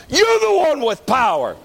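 high, forceful preacher's cry; fervent preaching shout. Real, not acted. Preacher telling the congregation who holds God's power, fervent shout.

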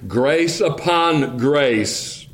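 very slow grace upon grace; unhurried, relishing the phrase; slow, savoring. Shown as a demonstration. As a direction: let each word of grace upon grace linger. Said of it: "or more literally".

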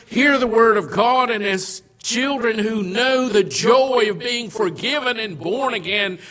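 loud, rising sermon build; fervent pulpit delivery; preaching. Acted. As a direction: preach it out to the congregation. Preaching at full force.

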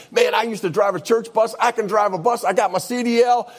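mock excited, lightly sung; retold excitement. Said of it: "And he got all excited".

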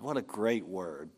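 soft, breathy whispered aside; hushed aside. Real, not acted. Preacher to his congregation, a whispered aside. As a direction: murmur it to yourself in awe. Aside after reading scripture.

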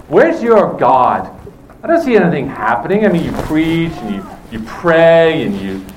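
a hint of mocking scorn, imitating a scoffer. Preacher voicing scoffers who mock believers, mild mocking tone. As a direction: lightly sneer it like a doubter taunting believers. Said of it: "this mocking tone in their voice".

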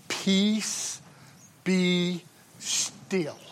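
softly, calmly, evenly. Retold or imitated. Christ calming the storm, said softly and calmly. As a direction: hush the storm with quiet calm. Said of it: "very calmly in a very calm voice".

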